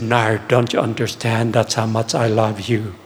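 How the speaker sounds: low, slow and gentle, almost hushed; tender voice of God. Retold or imitated. God speaking lovingly to young Nair, low and slow. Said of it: "God ... and said".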